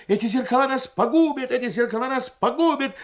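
loud, every word hammered out separately; each word clipped. A narrator's reading. Doctor pronounces doom to the guests, word by word. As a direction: beat out each word of "погубят". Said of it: "отчеканивая каждое слово".

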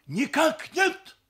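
high, loud, drawn-out soldierly shout; barked reply. A narrator's reading. Groom denying the grandfather's question, barking. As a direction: bark it like a recruit to an officer. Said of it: "гаркнул жених".

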